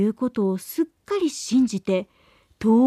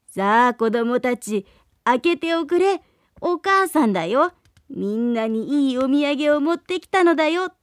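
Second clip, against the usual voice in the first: hoarse wolf voice. Acted. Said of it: "しゃがれたガーガー声".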